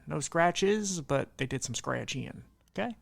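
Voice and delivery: light Southern drawl, Texas style; a hint of a Texas Southern accent. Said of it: "Why I did a southern accent?".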